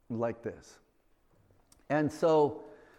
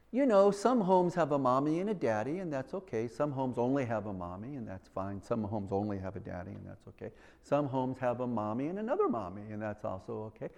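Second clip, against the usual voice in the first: mock teacher; 3 semitones lower, 6 dB quieter, faster than usual. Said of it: "the way they talk about it is so normal".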